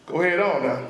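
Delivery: low-pitched warning to an enemy; warning go-ahead. Shown as a demonstration. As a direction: dare them to carry on. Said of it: "it's like, like this".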